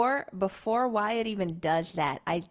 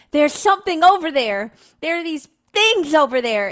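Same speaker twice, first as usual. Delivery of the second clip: loud, raised in-character warning; yelling out; 5 semitones higher, 9 dB louder than usual. Acted. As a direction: call out to warn the others. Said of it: "I probably yell out at first".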